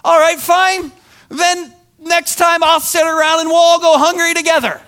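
loud, high sarcastic huff; mock angry grumble; fed-up retort. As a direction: snap it back resentfully. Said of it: "what wells up in me".

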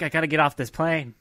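panicked yell. Retold or imitated. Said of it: "But then you were like".

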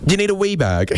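high Scottish lilt on "wee bag"; Scottish shop assistant. Retold or imitated. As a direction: ask it like a Scottish bookseller. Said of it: "the person behind the counter said".

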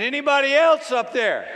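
high, very loud comic shout; yelling for help. Acted. Man on the branch seeks another rescuer, yelling. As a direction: bellow upward for someone else.

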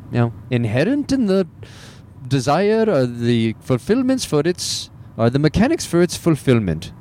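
put-on failed Indian accent on Deepak Chopra. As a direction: try an Indian accent and miss. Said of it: "Can't even do an Indian accent".

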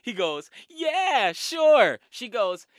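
high, fake-innocent voice; high and sweet, playing dumb; innocent girl voice. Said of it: "She's like".

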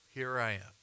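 soft, quiet surrender; submissive. Acted. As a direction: say it softly, yielding to God. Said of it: "The tone is submission".

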